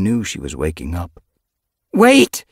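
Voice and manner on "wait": loud, high desperate call; crying out. Acted. Yellow Fang calls after vanishing Silver Flame, loud desperate cry. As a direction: shout after the fading cat. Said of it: "she cried".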